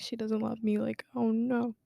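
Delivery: breathy whispered self-pity, half-joking; whispered mock sulk. A teenager feeling unloved after being disciplined, whispered mock sulk. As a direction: hush it like a wounded teen. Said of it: "I was like".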